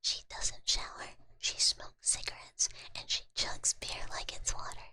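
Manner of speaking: punchy advertisement read kept in a whisper. Acted. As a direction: sell it like a spam ad, all in whisper. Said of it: "Should I do this in the voice?".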